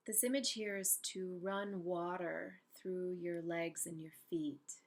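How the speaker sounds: unhurried meditation guide with long pauses; calm, spacious guided-imagery voice. Real, not acted. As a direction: guide them gently into stillness, leaving space between phrases.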